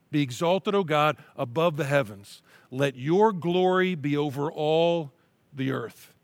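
slow, earnest reading of a psalm; scripture reading. Acted. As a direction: read it as a heartfelt prayer.

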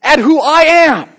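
high, loud pleading questions; loud preacher voicing God; God's challenge. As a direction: press each question on the crowd. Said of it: "God says".

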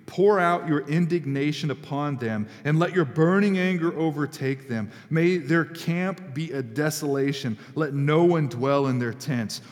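measured, weighty reading of a psalm; scripture reading. Acted. Preacher reading David's angry psalm to the church, weighty. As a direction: read the curse psalm aloud with gravity.

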